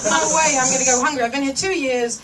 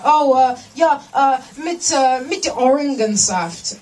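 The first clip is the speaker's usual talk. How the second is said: overly emotional German; slower than usual. Retold or imitated. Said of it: "I put too much emotion into it".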